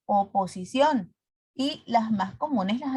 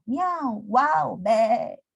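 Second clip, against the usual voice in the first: animal noises; much slower than usual. Shown as a demonstration. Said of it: "los sonidos de los animalitos".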